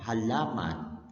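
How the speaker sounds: Halaman drawn out very slowly, la held long; slow length demo. Shown as a demonstration. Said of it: "La, binibigkas sa siya ng halaman".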